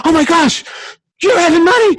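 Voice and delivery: excited gasp. Retold or imitated. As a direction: mimic a stunned woman squealing. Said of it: "She went".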